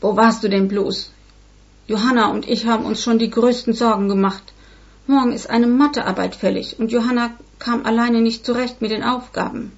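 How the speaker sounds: lauter, vorwurfsvoller Vater. Acted. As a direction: stell sie energisch zur Rede. Vater stellt Mutter zur Rede. (Vater macht der Mutter laut Vorwürfe)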